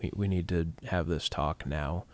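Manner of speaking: soft, low, earnest; solemn monologue. Shown as a demonstration. Composer acting out a solemn movie monologue, soft. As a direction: hush it like a grave confession. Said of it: "a very solemn monologue".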